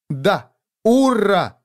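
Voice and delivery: little sister cheering with delight. Acted. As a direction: burst out happily.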